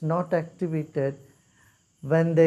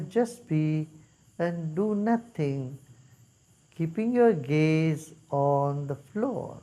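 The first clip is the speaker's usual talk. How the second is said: measured meditation instructions with long pauses; guided meditation. Real, not acted. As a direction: guide them unhurriedly, leaving silence between steps.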